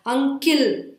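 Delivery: "unkill" with a clear KILL as second syllable; regional mispronunciation. Shown as a demonstration. Teacher warning learners how never to pronounce uncle, as UN-KILL. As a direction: end "unkill" on a full i vowel, -kill. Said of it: "these words are never pronounced as".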